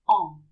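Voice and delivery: "en" as one short, loud nasal vowel; nasal sound. Shown as a demonstration. Teacher summing up the rule for learners, nasal sound. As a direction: say "en" through the nose, no N closed. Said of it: "they're pronounced".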